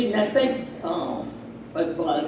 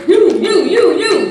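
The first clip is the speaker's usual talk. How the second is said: high, loud repeated you; shouting; 10 semitones higher, 8 dB louder than usual. Acted. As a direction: call them out, louder each time. Hammering the congregation.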